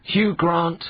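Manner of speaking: slow, drawn-out quiz host verdict; game show host. Acted. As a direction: announce it like a gameshow host. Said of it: "game show host ruling".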